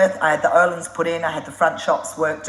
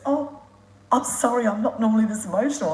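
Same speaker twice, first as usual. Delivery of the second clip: higher voice, lightly imitating an overwhelmed fan; retold emotional apology, pitched up; shaking with emotion; 7 semitones higher than usual. Fan apologising to the traveller he admires, imitated overcome voice. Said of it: "he's shaking and he goes".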